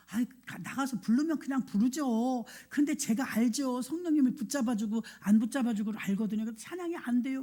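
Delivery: mildly whiny retold complaint; whining. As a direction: imitate a whiner, dragging the sentence endings. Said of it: "막 징징거리고 울어요". (살짝 징징대는 흉내)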